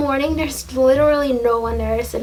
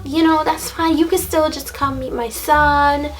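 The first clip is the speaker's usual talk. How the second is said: pushy lady; 4 semitones higher than usual. Retold or imitated. Lady persists, pitching her son.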